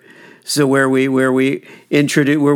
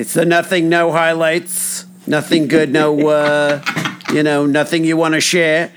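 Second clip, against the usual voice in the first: higher, prodding grandma nanny voice, drawn out; 4 semitones higher than usual. Retold or imitated. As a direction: coax the teenager like a nosy nanny. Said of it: "he's doing the nanny voice".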